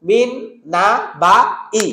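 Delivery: মিন না বা ই with the silent নুন sounded; wrong recitation. Shown as a demonstration. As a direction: show the mistake in মিন না বা ই. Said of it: "বলা যাবে না".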